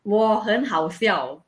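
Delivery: slow, careful Mandarin demo; Mandarin tones. Shown as a demonstration. Tutor slowly models the Mandarin for a learner. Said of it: "how do I say "I am funny" in Mandarin".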